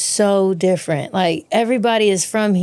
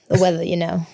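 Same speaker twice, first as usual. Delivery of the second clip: lightly put-on British accent; rough British accent. Guest demonstrating a beat-up accent for the host, rough British accent. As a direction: try a rough British accent on weather small talk. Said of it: "Can you do a British accent?".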